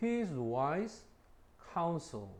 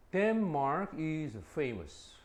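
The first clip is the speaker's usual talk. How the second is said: slow reading; much slower than usual. Shown as a demonstration. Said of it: "slow example reading".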